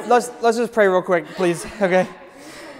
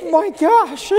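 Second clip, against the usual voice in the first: voice cracking; 10 semitones higher than usual. Real, not acted. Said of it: "My voice just cracked".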